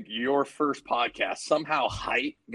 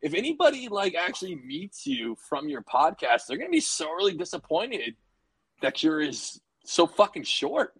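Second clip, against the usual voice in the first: mock wife voice; 3 semitones higher than usual. Wife quoted, higher.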